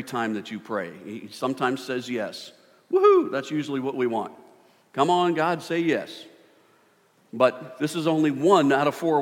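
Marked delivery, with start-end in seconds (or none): 2.9-3.3 loud high cheer of joy; excited whoop. Acted. Preacher whooping at God's yes, high and loud. 4.9-6.2 eager pleading. Acted. Pleading with God for yes.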